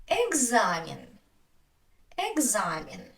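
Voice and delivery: "экзамен" with long a and ee-like last vowel; stress on а. Shown as a demonstration. Teacher's listening quiz, "экзамен" with stressed long a. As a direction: stretch the middle of "экзамен". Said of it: "because the stress is on а".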